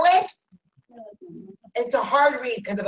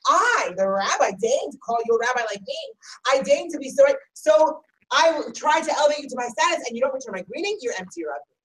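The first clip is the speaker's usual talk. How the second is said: indignant rabbi. Shown as a demonstration. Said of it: "suddenly we're furious".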